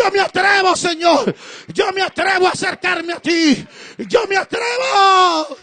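loud, rising declaration of daring; bold fervent cry. Retold or imitated. Worshipper crying out to God, loud and fervent. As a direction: cry out your courage to the Lord. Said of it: "y dice".

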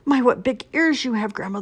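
high, loud strained croak; croaking wolf. A narrator's reading. Wolf facing Grandma in her grip, croaking. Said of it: "the wolf croaked".

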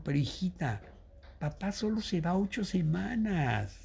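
softly retold motherly reassurance; lightly voiced gentle mother; sensible, soothing mother. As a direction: speak softly, as if calming a little girl. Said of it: "que es muy sensata para hablar".

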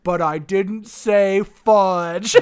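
slow, deliberate narrator; a hint of the grown-up narrator, slowly. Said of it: "the narrator voice, which is his voice, goes".

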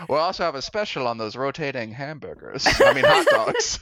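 laughing. Acted. Attendant voice continues, laughing.

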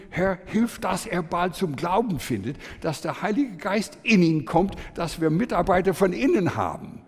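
re-enacted fervent prayer; storming prayer. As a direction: plead insistently with the Lord. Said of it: "ich betete Sturm".

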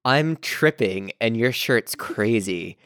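slow, lightly voiced dazed tone; imitating his tone. Podcaster imitating Brett, slow and lightly dazed. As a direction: drawl it like you're tripping. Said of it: "he said it in that tone of voice".

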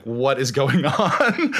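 slow, puzzled question breaking into a laugh; bemused slow laugh-through; laughing disbelief. Retold or imitated. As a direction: drag it out, laughing at the absurdity. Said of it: "I was like".

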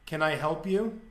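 put-on flat, unbothered Russian accent; Russian accent, totally straight-faced; deadpan Russian accent. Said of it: "it was just deadpan, ... Russian accent".

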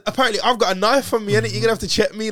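high, loud, laughing through the words. Retold or imitated. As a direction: chuckle while telling the cop. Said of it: "I'm laughing about the whole thing".

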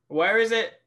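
rising pitch mock impatience; impatient. Real, not acted. Impatiently waiting for a PDF.

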